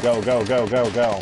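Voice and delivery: loud urgent go go go; cover me shout. Real, not acted. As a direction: yell them forward. Urging teammate forward in game.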